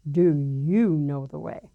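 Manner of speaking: slow, low and stern; a booming voice asking gently but firmly; lightly voiced stern voice of God, slow; stern divine voice. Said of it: "Very stern".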